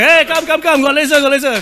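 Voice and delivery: loud retold quote. Retold eye doctor urging.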